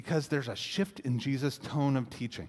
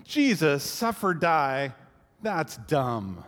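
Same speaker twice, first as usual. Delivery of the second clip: louder, blurted mock objection; mock outburst; 4 dB louder, slower than usual. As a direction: scoff it like an arguing relative. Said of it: "it doesn't tend to go like".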